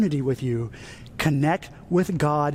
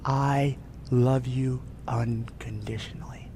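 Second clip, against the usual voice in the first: unvoiced, slow loving whisper; 4 semitones lower, 5 dB quieter, slower than usual. God whispering love into the listener's ear, whispered. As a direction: breathe it like a secret. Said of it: "and he says".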